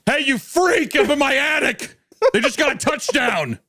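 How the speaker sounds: mock husband calling his wife during the game; host calling out. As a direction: shout up to her like a cheery host. Acting host calling wife at party.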